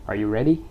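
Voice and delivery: "ready" rising at the end; rising question. Shown as a demonstration. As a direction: lift "ready" like a yes-no question. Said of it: "then your voice is rises".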